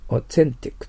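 "オーセンティック" with English th in place of Japanese s; English pronunciation. Shown as a demonstration. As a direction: say "オーセンティック" as English authentic, with a tongue-made th. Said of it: "と発音します". (「オーセンティック」のセを舌を使った英語のth音で発音)

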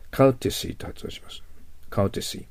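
"courtesy" said as an English word; teacher models "courtesy" for the class; English pronunciation. Shown as a demonstration. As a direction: model "courtesy" clearly for students.

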